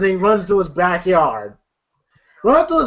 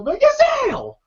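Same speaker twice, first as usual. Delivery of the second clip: much higher drawn-out plea; high pleading whine; slower than usual. Retold or imitated. Smokey begging the neighbor, high whine. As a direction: whine his name helplessly.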